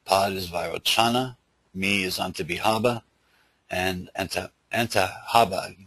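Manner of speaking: slight lisp from dental problems; lisping through the s sounds. Real, not acted. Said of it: "I'm sorry about the lisp".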